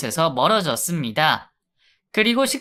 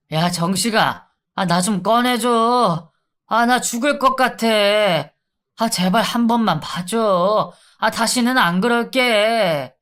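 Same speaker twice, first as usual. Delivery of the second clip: higher, whining plea; pleading inmate; 4 semitones higher than usual. Acted. Inmate begging the guard to free him, whiny plea. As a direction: beg desperately to be let out.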